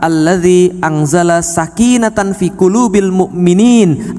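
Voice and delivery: slow, measured recitation of the verse; Quran recitation. Acted. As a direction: chant it slowly and reverently. (pelan seperti tilawah)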